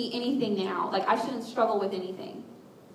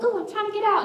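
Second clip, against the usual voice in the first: high-pitched acted strain; mock struggling; 10 semitones higher, 3 dB louder, faster than usual. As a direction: play someone trying to climb out. Voicing someone trapped in closet.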